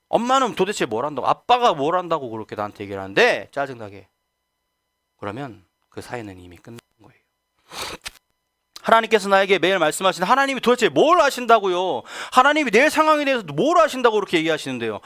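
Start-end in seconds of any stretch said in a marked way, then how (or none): 0.1-4.1 irritated complaint. Acted. Irritated child quoted. 8.8-15.0 high, loud indignant protest at God; defiant outburst. Acted.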